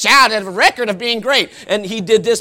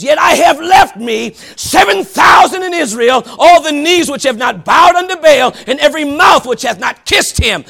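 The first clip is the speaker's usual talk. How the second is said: booming proclamation; 5 dB louder than usual. Acted. God's answer proclaimed.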